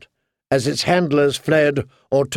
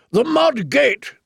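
high, drawn-out rallying call; slow, high-pitched shout, held in volume; shouted battle order; 11 semitones higher, slower than usual. A narrator's reading. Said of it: "Sir Mandan shouted".

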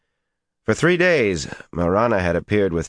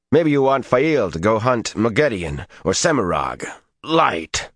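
heated, rising angry protest; furious, voice climbing high; 6 semitones higher than usual. A narrator's reading. Perrin angrily confronting Rand.

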